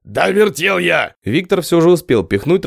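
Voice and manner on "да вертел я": 1 slow heated retort. A narrator's reading. Heated quarrel.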